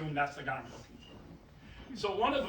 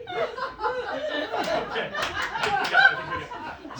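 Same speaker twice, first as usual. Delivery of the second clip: mock triumphant squeal; 7 dB louder, much faster than usual.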